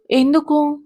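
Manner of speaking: put-on a touch of a hurt child pleading. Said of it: "శ్రావ్య బాధపడుతూ".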